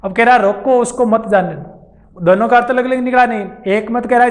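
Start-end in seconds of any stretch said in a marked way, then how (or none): 0.4-2.0 रोको set apart, then slower उसको मत जाने दो; pause after रोको. Shown as a demonstration. Teacher explaining the second meaning, slow, pause after रोको. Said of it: "मैंने यहाँ विराम लिया इन दोनों के बीच".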